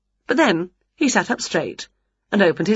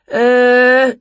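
loud, higher, drawn-out uh of dismay; 6 semitones higher, 7 dB louder than usual. A narrator's reading. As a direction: let out a stalling, appalled uh. Conductor dismayed by the singing.

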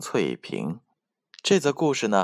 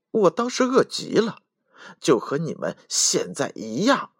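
hurried mouse; 5 semitones higher than usual. Acted. Mouse hurriedly explaining to the foxes, high and squeaky. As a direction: rush to explain in a tiny voice. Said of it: "小老鼠急忙解释道".

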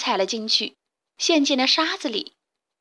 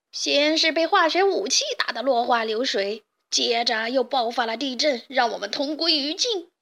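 furious yell; 2 semitones higher than usual. Acted. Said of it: "强盗巴巴气得大叫".

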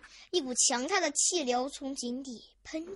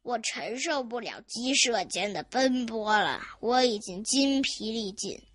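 put-on lower-pitched, worn-out old man; weary lament; 4 semitones lower than usual. Exhausted grandpa to himself, lamenting wearily. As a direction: sigh out an old man's exhaustion. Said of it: "他悲叹道".

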